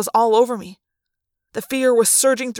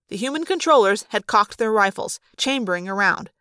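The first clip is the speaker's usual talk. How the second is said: ordinary delivery, nothing marked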